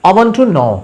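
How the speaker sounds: "I want to know" with know held long at the end; stress on KNOW. Shown as a demonstration. Teacher showing what stress means, stressed KNOW. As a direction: land firmly on know.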